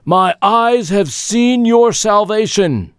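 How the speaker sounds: slow, high solemn prayer. Acted. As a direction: pray it slowly and reverently. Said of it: "Simeon prays to the Lord".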